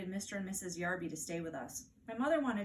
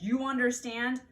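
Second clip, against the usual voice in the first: higher, louder demanding question; firm check; 5 semitones higher, 7 dB louder than usual. Acted. Mother checks Fudge understood, louder firm question. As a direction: make sure he got it. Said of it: "mother warns".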